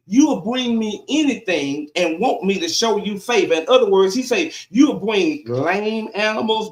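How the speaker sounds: emphatic sermon delivery of scripture; preaching God's words. Acted. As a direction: preach it as God's complaint, pausing between phrases.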